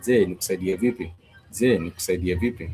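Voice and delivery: fast, run together; quick drilled repeat of the question; quick repetition. Shown as a demonstration. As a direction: rattle it off like a native. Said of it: "the J E is simply just a cue".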